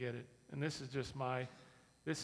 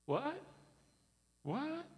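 baffled what; 13 semitones higher than usual. Acted. Disciples baffled by donkey order.

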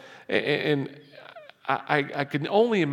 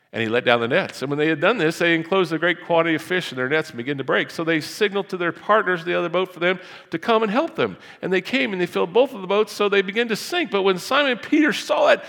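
raised, fast preaching read; scripture reading; 9 semitones higher, 5 dB louder, faster than usual. Acted. Pastor reading Luke to the congregation, raised and fast. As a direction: proclaim the passage to the church.

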